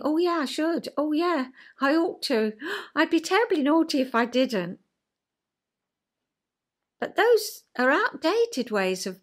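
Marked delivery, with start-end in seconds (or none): 0.0-4.8 a touch higher, eager-to-please yes; mock dutiful child agreeing; compliant adapted child. Adult state recalling parent, mildly eager child voice. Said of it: "I might think".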